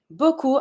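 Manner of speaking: BEAUCOUP ending on an "oo" sound, no P; silent P. Shown as a demonstration. Teacher showing the French for a lot, "Beaucoup" with silent P. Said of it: "I don't pronounce my P".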